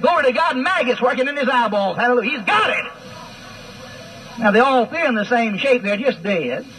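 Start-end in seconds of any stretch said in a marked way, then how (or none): 0.0-2.8 mock revival preacher. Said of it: "going to the funeral home and saying".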